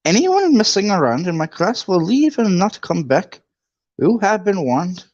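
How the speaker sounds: high, stern Scottish teacher; McGonagall voice. Acted. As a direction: lecture the class like a strict old witch. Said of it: "I gotta do McGonagall's voice".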